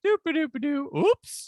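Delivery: high, carefree mock humming, then a little oops; oblivious bumbling. Host mocking the Doctor's unexplained climb down, in high oblivious singsong.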